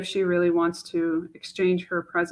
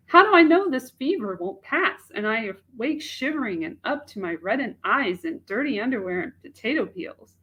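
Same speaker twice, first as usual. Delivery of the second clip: Mache; 3 semitones higher than usual. Acted. Young woman doubting a marriage proposal to herself, in an anguished voice.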